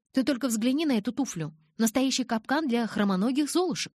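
half-joking, exasperated protest; animated grumbling. Acted. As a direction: grumble playfully, pitch lifted. Sulky heroine complains about shoes.

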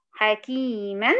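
حكيمًا said very slowly with its ending nun; tanween demo. Shown as a demonstration. Teacher demonstrating the spoken nun to students, slow. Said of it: "فهو في نطقه نون".

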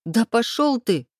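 slow, high, biting retort; snapping. A narrator's reading. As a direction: spit it at him in anger. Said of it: "рявкнула".

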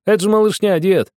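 put-on high, loud boyish scoff; loud mocking laugh. A narrator's reading. Boy mocking the younger girls to grandpa, loud. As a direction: scoff loudly at the little ones. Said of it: "громко засмеялся Огоньков".

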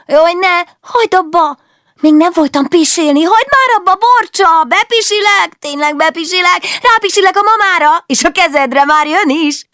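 very high, loud squealing between giggles; giggling child plea. Acted. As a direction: beg her to stop while being tickled. Child being tickled, begging. (csiklandozott gyerek sivít és könyörög nevetve)

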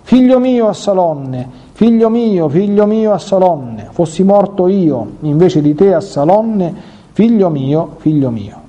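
slow, drawn-out grieving cry, lightly voiced; mild weeping lament. David weeping over his son Absalom, slow mild lament. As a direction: mourn the son, a touch tearful and slow. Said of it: "pianse e disse andandosene".

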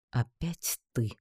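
grudging, drawn-out greeting; grumbling. A narrator's reading. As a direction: drag it out wearily in a grumble. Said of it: "пробурчал знакомый голос".

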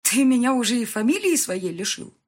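wife's furious shouted demand; seething. A narrator's reading. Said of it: "кипела я внутри".

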